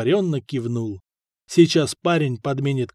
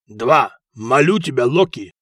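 fervent plea; 2 semitones lower, 4 dB louder than usual. Acted. Gambler begs Loki before throw.

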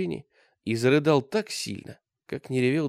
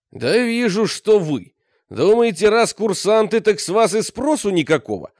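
loud, higher barking of orders; scolding commander; 9 semitones higher, 10 dB louder than usual. A narrator's reading. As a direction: drive them to formation. (командир отчитывает курсантов, громко)

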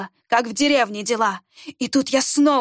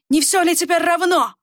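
snapped retort; 6 semitones higher than usual. A narrator's reading. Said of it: "огрызнулся Эшгар".

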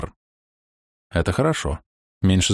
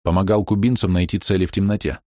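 plain reading voice

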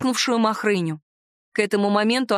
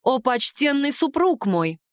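slow, grandly respectful address; mock reverence; 4 semitones higher, slower than usual. Heroine flatters her dragon husband with slow mock reverence. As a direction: flatter him with exaggerated ceremony.

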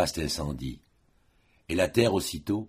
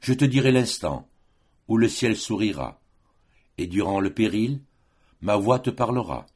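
lifted, declaimed vow in verse; ardent promise; 3 semitones higher than usual. Acted. Lover promises the beloved a voice through the peril, ardent promise.

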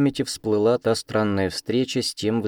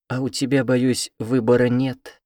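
meowing cat voice; 5 semitones higher, 3 dB louder than usual. A narrator's reading. Giant cat telling the girl she has no choice, mock-meowing. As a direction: purr out the words like a cat. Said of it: "мяукнул кот".

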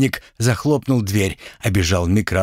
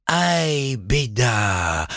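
Uzbek Nariman dismayed; 4 semitones higher, much slower than usual. Acted.

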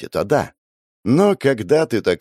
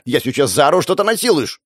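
put-on higher girl's voice, stress on насилуешь; threatening girl; 4 semitones higher than usual. Sister threatens brother she will scream, higher voice. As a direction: threaten to make a scene.

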